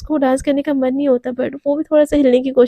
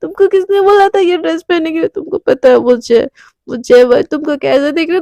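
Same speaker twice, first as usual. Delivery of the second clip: put-on raised, accusing drunk whine; drunken accusing rant; 2 semitones higher than usual. Heartbroken drunk friend accusing Devika at party, whining angrily. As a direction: scold her like a heartbroken drunk.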